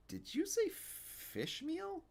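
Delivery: put-on wide-eyed kid describing genies; young boy voice. Stanley voiced as child.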